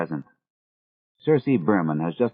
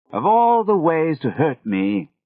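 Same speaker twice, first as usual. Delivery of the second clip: a betrayed British mentor's slow lament; Gregory's British accent; 6 semitones higher, slower than usual. A narrator's reading. Gregory telling his apprentices how they hurt him, slow wounded British accent. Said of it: "in that British accent of his".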